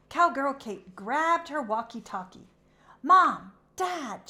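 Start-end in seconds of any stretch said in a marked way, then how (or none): 3.0-4.3 loud, high call for help; yelling. A narrator's reading. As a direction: shout for Mom and Dad. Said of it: "she yelled".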